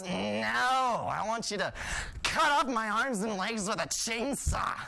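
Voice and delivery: slow, heavily drawn-out sarcasm; sarcastic. Acted. Marty answering an offer of help with the sofa, sarcastic. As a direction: drag out every word with exaggerated scorn. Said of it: "I was just being sarcastic".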